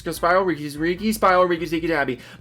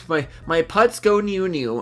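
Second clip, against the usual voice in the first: slow, goofy sing-song on "my putts go new new"; 3 semitones higher than usual. Acted. Reading a viewer's silly name aloud, slow goofy sing-song. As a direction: drag out "new new" like a silly chant. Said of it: "say it in that tone".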